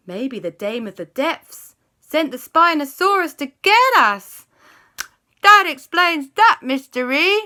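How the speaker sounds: high, loud, dramatic dawning alarm; alarmed realisation. A narrator's reading. Aunt realises the monster was sent, alarmed. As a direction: build from shocked question to loud realisation.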